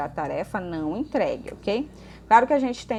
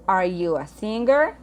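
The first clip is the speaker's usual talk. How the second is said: slow, careful English question; slow model reading; 4 dB louder, slower than usual. Shown as a demonstration. Teacher modelling a question for the class, slow and clear. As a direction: read it slowly so students can follow. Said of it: "teacher reads example question".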